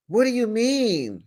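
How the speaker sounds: high, stretched-out clueless question; mock bewilderment. The speaker asking friends to explain the advantage, acted high bewilderment.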